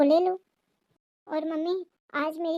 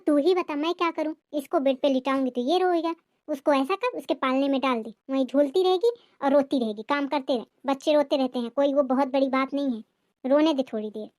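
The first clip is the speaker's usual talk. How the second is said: lightly lowered voice of a complaining mother-in-law; scolding mother-in-law. Acted. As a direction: nag the daughter-in-law with a touch of bitterness. Mother-in-law dismissive advice.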